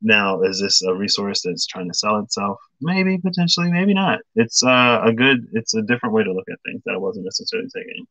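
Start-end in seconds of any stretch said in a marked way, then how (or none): 2.8-4.2 playfully noncommittal. Acted. Answers own question in singsong.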